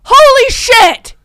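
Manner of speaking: slow, loud, high exclamation; freaking out. Real, not acted. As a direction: stretch the curse out in real shock. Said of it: "I'm freaking out".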